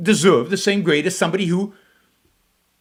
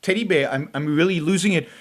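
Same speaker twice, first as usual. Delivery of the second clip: mock triggered viewer; 2 semitones lower than usual. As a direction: pretend to be losing it, half-hearted. Mocks a triggered, dismayed viewer.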